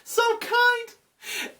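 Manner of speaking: high, urgent, unhinged mother voice; crazed mother. Retold or imitated. Deranged mother urging the older daughter on, high and frantic. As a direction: rush it like a mother gone mad. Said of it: "the mom's like".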